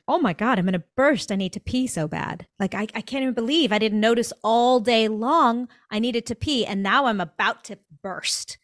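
mildly acted desperation; lively, pressing end-of-day realization; urgent exclamation. Acting out sudden urgent need.

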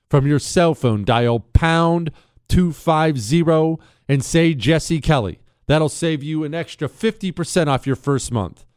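slow, loud ad read. Acted. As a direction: spell out the number slowly. Ad read of phone number.

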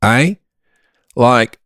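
slow Melbourne accent; Australian accent. Shown as a demonstration. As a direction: boast in a drawn-out Aussie accent. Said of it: "sounds like I'm from Melbourne".

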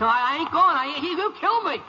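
panicked fear. Acted. Prisoner sees his enemy Foley.

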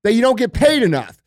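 usual speaking voice

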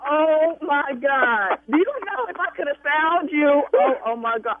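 shaky voice; trembling after the shock; adrenaline shakes. Real, not acted. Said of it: "my hands are shaking".

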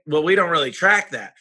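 light, slightly put-on Texan accent. Business owners admitting they don't track numbers, light Texan accent. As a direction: imitate clients with a touch of Texan. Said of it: "I got a Texan accent with that".

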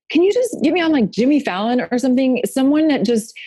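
lightly acted pleading; pleading request. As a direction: make an eager pitch, voice lifted. Retelling her plea to bookers.

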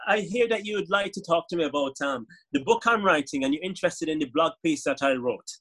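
put-on Caribbean accent; a parody of a Caribbean speaker; Caribbean Man. Asking a journalist about the book, Caribbean accent. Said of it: "when I was doing Caribbean Man".

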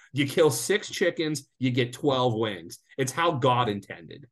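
slow, deliberate mock-solemn pronouncement; slow decree on how God intended; slow emphatic decree. Real, not acted. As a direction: lay down the law slowly. Mock solemn rule about wings.

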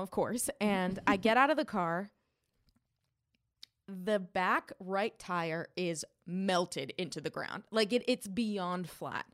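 normal talking voice

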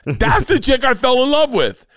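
high, dreamy lovestruck voice, way up in pitch; mock-swooning falsetto of pure adoration; swooning husband. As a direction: gush it like a smitten husband. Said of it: "And you're like".

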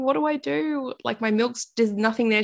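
high, frantic asking for help; pleading for help, voice up high; panicked plea. Retold or imitated. New mum messaging her mothers group, panicked and high.

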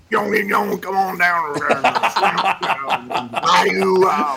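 hammed-up, slurred Cajun holler; Cajun accent. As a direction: ham up a Cajun swamp man, half gibberish. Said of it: "one more of that Cajun accent".

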